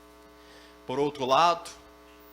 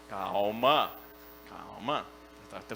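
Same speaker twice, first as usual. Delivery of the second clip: calming; 10 semitones lower, slower than usual. Acted. Pastor calming the raging member.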